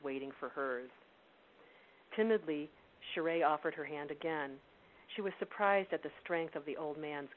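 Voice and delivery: steady, measured storytelling read; story narration. A narrator's reading. Reads novel excerpt aloud.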